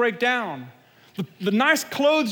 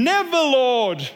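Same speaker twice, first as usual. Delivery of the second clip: louder, slowed protest; firm rebuke; 5 dB louder, slower than usual. Acted. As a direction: push back hard, refusing outright. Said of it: "began to rebuke him".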